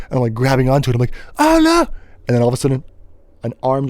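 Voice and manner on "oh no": high loud cry of alarm; a squealed oh no; mock panic. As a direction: yelp in fake terror as you slip. Sliding off edge.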